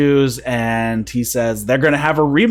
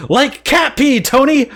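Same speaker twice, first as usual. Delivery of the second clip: high-pitched sudden yell, louder; mock yell; 13 semitones higher, 4 dB louder than usual. Wrestler yelling at Tony out of nowhere, high mock yell. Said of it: "he just yell-, yells".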